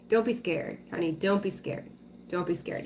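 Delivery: calm her fears gently; reassuring. Real, not acted. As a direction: softly reassure the viewer. Reassuring a worried viewer.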